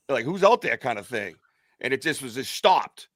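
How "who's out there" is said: retold challenge into the dark, pitched up; re-enacted call-out, raised pitch. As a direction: call out to an unseen stranger. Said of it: "and I yelled".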